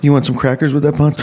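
high, bright server voice; waitress voice. Retold or imitated. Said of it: "She goes".

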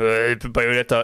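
raspy smoker's voice as Bayonetta; smoker's rasp. Retold or imitated. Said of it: "Mit so einer rauchigen Raucherstimme".

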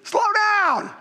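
high, drawn-out whoas; calling halt. Retold or imitated. Sergeant stopping an excited trainee, high emphatic halt. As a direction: rein in a runaway talker, pitch up.

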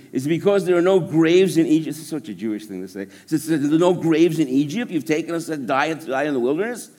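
a touch of kvetching Jewish family; mildly whiny, put-upon complaint; whiny complaining Israelites. Acted. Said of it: "It sounds like I can hear my family".

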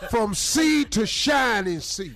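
hype shout. Acted. Hype roll call.

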